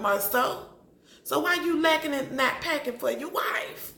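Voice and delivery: high, loud and fast call-out; high, loud rant at Marceau; heated scolding. Real, not acted. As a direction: roast him for neglecting his wife.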